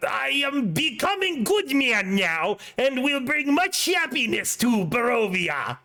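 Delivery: slow, mouth half covered dummy voice; terrible ventriloquist act, lips barely hidden; bad ventriloquist. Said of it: "very terrible, like, he's half covering his mouth".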